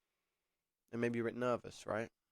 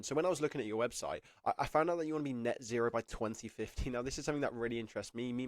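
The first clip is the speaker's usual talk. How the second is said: lightly upbeat, sincere interview answer; with real energy. Shown as a demonstration. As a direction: sound like you actually mean it. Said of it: "what I've said it there is with intonation, a bit of character".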